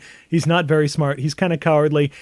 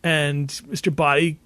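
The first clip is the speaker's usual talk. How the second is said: slow, laboured working-out; painfully slow realization; 2 semitones higher, slower than usual. Retold or imitated. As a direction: piece it together painfully slowly. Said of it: "very painfully brings out this".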